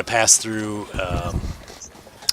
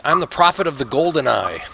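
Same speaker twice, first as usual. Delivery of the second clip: higher-pitched doomsayer voice; declaiming prophet, pitch raised; prophet character; 6 semitones higher than usual. Acted. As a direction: announce yourself as a grand street prophet. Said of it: "He's like".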